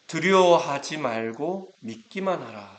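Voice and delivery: slow, firm reassurance; steady him, unhurried; reassuring command. Acted. Jesus comforts the synagogue ruler. (두려워하지 말라는 차분하고 단호한 위로)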